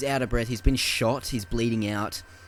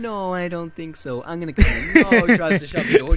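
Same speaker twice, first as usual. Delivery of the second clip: mock tough cop; 8 semitones higher, 11 dB louder than usual. Gyllenhaal refusing and barging in, hammed-up tough voice. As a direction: play the cop forcing his way in, hammed up. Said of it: "he's like".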